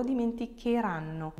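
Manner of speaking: hard K in the "che" of "dimenticheranno"; strong K sound. Shown as a demonstration. Teacher warning learners about the added H, hard K in "dimenticheranno". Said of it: "it's a strong K sound".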